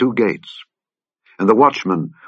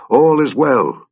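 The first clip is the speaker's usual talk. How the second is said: high, raised call to the king; 6 semitones higher, 3 dB louder, slower than usual. Acted. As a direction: call it out as you arrive. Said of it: "Ahimaaz called and said".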